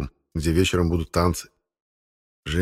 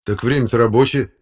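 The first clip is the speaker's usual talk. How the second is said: level-headed, slightly raised voice; reasonable; 4 semitones higher, 5 dB louder than usual. Acted. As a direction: point it out sensibly. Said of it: "рассудительно ответил Володька". (рассудительно)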